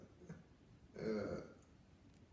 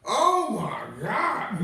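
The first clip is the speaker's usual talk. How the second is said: exasperated; 7 semitones higher, 10 dB louder, much slower than usual. Retold or imitated. Exasperated reaction in line.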